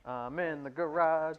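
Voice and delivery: distant voice from the laundry room; calling from a far room; from another room. Shown as a demonstration. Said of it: "They can hear".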